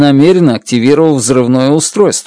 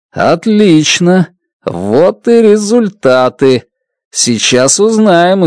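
excited; 5 semitones higher, slower than usual. Acted. Narrator thrilled at the results.

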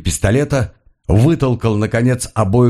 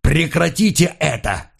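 a higher-pitched yell to stop it; Paul yells at Schiffer, gun drawn: pitched-up yell; yelled order; 7 semitones higher than usual. A narrator's reading. Paul orders his partner to stop: strained high shout. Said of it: "заорал".

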